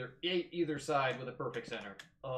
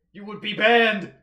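mock outraged yell; 6 semitones higher, 15 dB louder, slower than usual. Mock outrage threatening ban.

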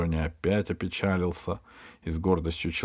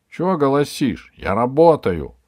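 annoyed shout; 7 semitones higher, 7 dB louder than usual. Acted.

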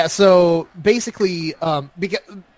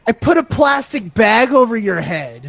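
imitating the woman; 4 semitones higher, 4 dB louder than usual. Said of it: "she says".

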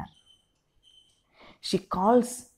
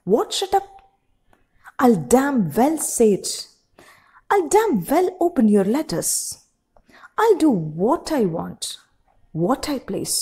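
angry defiance; 4 semitones higher than usual. Acted. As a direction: throw every word back at her. Husband shouting back.

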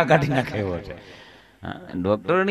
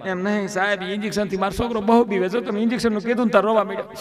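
higher, softer, fast anxious mother voice; 4 semitones higher, 4 dB quieter, faster than usual. Retold or imitated. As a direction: rush the worry out in a higher voice. Mother fears her son's injection.

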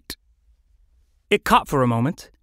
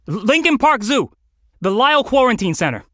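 tag; 7 semitones higher, 4 dB louder than usual. Acted. Calling location to rescuer.

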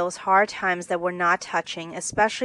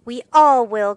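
loud, raised exclamation; higher, much louder burst; crying out; 4 semitones higher, 10 dB louder than usual. A narrator's reading. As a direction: cry it out in heartfelt agreement. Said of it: "cried Meg".

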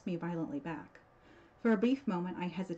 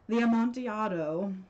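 louder, rising, knowing echo of the name; sly reply; 4 semitones higher, 8 dB louder than usual. Acted. Montresor slyly echoes Fortunato's cry back at him.

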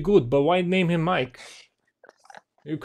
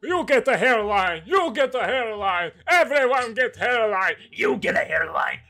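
giveaway host calling out each prize; Oprah. Acted. Posing as a host giving hairlines away, emphatic announcing. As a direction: hand out each line like a talk-show announcement. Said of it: "Yes, I'm Oprah".

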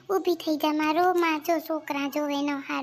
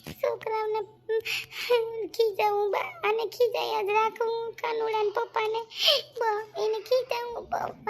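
weepy lament; 6 semitones higher than usual. Acted. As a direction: trail off in tired tears. Wife weeps, tired.

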